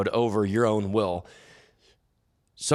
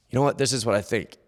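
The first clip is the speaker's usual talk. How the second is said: lightly acted first side of a self-conversation; man talking to himself; faster than usual. Rich man sharing his thought with himself, lightly acted. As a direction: open a little chat with yourself in your own voice. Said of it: "he and himself have this conversation".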